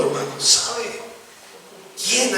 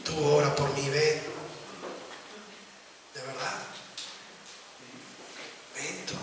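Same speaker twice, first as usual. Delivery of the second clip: taunting demon; 5 semitones lower, 11 dB quieter than usual. Retold or imitated. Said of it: "la retan y le dicen".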